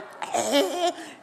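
imitated noise of attached bees; comic wriggling-bee sound. Mother imitating bees stuck on her son's tongue, comic noise.

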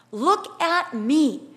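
slow, stressed "Look at me"; each word of "Look at me" weighed, firmly; insistent command. Acted. God to Jeremiah in trouble, insistent command.

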